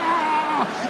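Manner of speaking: high startled cry; mock scream of a scared passenger; frightened shriek. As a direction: yelp in fright.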